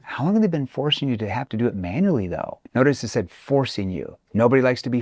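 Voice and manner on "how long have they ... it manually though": concerned tone. Shown as a demonstration. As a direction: sound sorry for their trouble. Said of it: "notice how I say it in a concerned tone".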